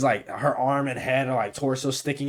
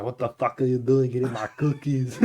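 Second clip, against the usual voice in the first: 1 laughing indignation. Retold or imitated. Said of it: "He's like".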